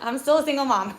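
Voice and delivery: loud laugh around the words. Real, not acted. Laughing at own joke.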